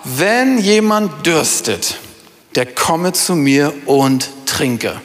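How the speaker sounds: slow, weighty quoting of Jesus; solemn scripture reading. Acted. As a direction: read the verse slowly and deliberately. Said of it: "rief und sprach".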